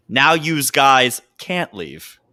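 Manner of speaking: slow, flat tough-guy line; tough guy quote. Retold or imitated. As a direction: say it slow like a mob heavy. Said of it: "he turns and says".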